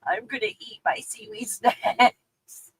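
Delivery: slow, dreamy mock resolve; lightly voiced sad-day self; retold self. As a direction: imitate her past self comforting herself. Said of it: "And I'm like".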